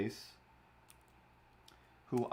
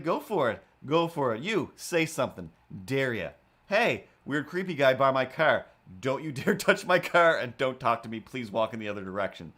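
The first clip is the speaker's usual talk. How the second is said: loud cocky taunting; defiant dare; 5 dB louder than usual. Retold or imitated. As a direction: challenge them, half-joking bravado. Defiant imagined challenge.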